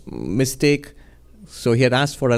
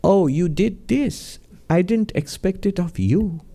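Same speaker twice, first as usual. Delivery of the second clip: gentle reproach; 4 semitones higher, slower than usual. Retold or imitated. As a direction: let him down gently, slowly. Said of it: "his harshest scolding was".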